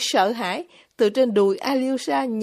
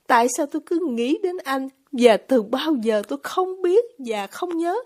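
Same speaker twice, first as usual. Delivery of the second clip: a lightly voiced young woman, pitched up and earnest; confessing herself to Alyosha, a little higher than the narration; lightly raised woman's voice, heartfelt; Grushenka; 4 semitones higher than usual.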